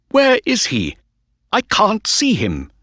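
straining to spot his horse, pitch way up; excited cry. A narrator's reading. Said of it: "he cried".

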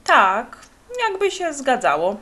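said out loud, evenly and unhurried; a steady, unruffled reply, spoken up; loud but calm. A narrator's reading. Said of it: "odparł głośno, lecz niezwykle spokojnie".

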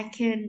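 "can" reduced to a short schwa in "I can"; "can" weakened, vowel swallowed; weak form. Shown as a demonstration. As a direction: say "I can" with an unstressed "kən". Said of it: "đọc dạng yếu của nó".

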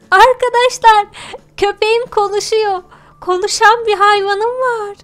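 excited. Acted. Shocked by talking dog.

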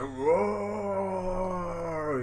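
drawn-out creature bellow; monster roar. Retold or imitated. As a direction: roar like a cartoon beast. Big Chopper roars.

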